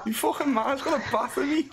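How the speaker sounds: high imitation Scouse; put-on Scouse squawk; Scouse accent. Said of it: "speaking of Scouse accents".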